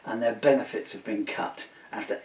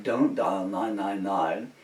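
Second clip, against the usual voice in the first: slow warning. Retold or imitated. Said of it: "the N H S put an alert out".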